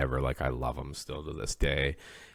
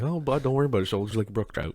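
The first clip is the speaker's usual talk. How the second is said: buddy's catchphrase; 9 semitones higher, much faster than usual. Retold or imitated. Mimicking the buddy's catchphrase, high and breezy. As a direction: chirp it like a laid-back outback buddy. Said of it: "That's his thing".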